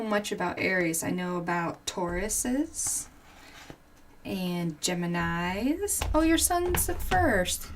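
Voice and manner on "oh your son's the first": pleased surprise. Real, not acted. Reading viewer comment.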